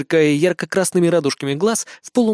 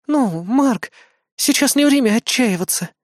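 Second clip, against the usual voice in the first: encouraging; 9 semitones higher than usual. Acted. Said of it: "попыталась подбодрить меня Азуми".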